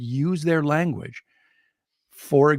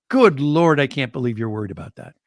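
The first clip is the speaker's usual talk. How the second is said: playful scoffing; faster than usual. Retold or imitated. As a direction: tease him lightly for worrying. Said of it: "shove me playfully, like".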